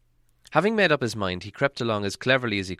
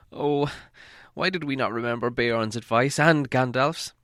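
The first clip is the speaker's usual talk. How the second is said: lament; 3 semitones higher than usual. Acted. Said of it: "he lamented".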